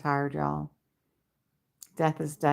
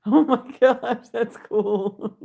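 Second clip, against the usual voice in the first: excited; 5 semitones higher, 6 dB louder, slower than usual. Real, not acted. Excited reaction to chat.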